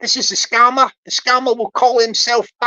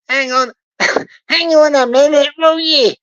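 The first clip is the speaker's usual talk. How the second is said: raised-voice chip-shop order; calling out; 2 semitones higher, 3 dB louder than usual. Acted. Barry caught ordering salt and vinegar on chips, calling out. Scammer's real voice caught in background.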